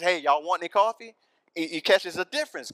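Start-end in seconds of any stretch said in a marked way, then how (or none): 0.0-1.1 put-on a touch of Southern accent, a bit higher and louder; friendly Southern host offering coffee, lightly imitated; imitating Southern drawl. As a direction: Pastor Kevin's Southern accent, half-imitated. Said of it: "Pastor Kevin says".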